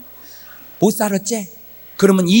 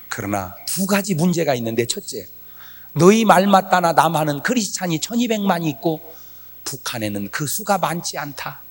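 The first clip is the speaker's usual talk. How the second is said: soft, measured voice of God; God's gentle reply; 3 semitones lower, 6 dB quieter than usual. Retold or imitated. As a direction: explain quietly as God, in retelling. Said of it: "하나님이 두 가지 얘기를 하시더라고". (하나님 음성처럼 낮은 목소리로 차분하게)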